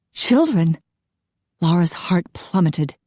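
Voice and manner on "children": high, stunned question; officer stunned to hear of children; shocked. A narrator's reading. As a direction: gasp out the word.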